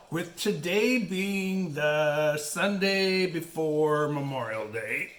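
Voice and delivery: talking through hiccups; speech broken by hiccups. Real, not acted. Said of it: "I have the hiccups".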